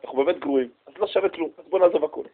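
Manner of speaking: a people giving up, voice sinking; resigned despair. Retold or imitated. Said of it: "אומרים לו". (עם ישראל לנביא, בייאוש שקט ומושפל)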